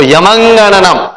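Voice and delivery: यमंगणनम slow, each nasal syllable clear; slow teaching demo of यमंगणनम; careful pronunciation. Shown as a demonstration. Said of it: "ऐसा इसका ध्वनि है".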